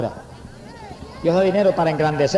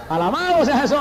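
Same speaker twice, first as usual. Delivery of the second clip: praise exclamation; 8 semitones higher than usual. Real, not acted. Preacher praising Jesus, raised voice.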